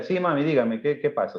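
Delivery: loving son answering his mother kindly; sweet to mom. Shown as a demonstration. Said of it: "O que le diga".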